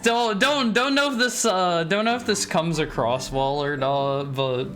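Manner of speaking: hammed-up British accent with Liverpool flavour; mock British accent. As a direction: put on a cheeky Liverpool accent. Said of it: "I suddenly feel transported to Liverpool".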